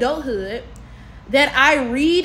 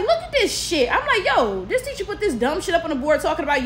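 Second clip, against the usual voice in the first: high-pitched rant for Snapchat; retold indignant rant; 4 semitones higher than usual. Student cutting up on Snapchat about her teacher, indignant. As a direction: cut up in mock outrage.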